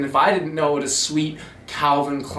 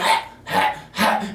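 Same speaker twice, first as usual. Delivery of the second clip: retching heaves; 5 semitones higher, slower than usual. Retold or imitated. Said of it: "stomach contractions".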